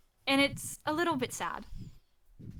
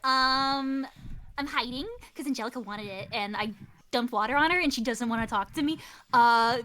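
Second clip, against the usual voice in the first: put-on chatty, a bit secretive kid; teen girl voice; 2 semitones higher, 4 dB louder than usual. Kiri confides she is hiding, chatty teen girl. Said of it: "the first thing she says is like".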